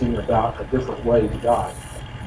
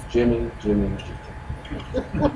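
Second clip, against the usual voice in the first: put-on warning call to a child; 7 dB quieter, much slower than usual. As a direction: call the child's name as a warning before a scolding. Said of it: "somebody in your family is doing something and you say".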